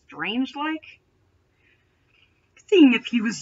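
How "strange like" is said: strange-like asked softly with a rising, doubtful tune; incredulous question. Real, not acted. Reader questions the fic's wording, softly incredulous. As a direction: query strange-like in quiet disbelief.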